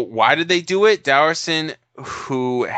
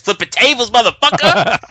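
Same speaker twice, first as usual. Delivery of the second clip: higher, louder gleeful cheer; hammed-up excited shout; mock hype yell; 7 semitones higher, 7 dB louder than usual. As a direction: holler it like a fight fan.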